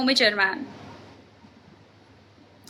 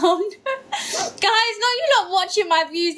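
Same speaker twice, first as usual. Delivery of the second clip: laughing, higher, mock upset; laughing protest; 5 semitones higher, slower than usual. Real, not acted. Streamer laughing at her dropping viewer count.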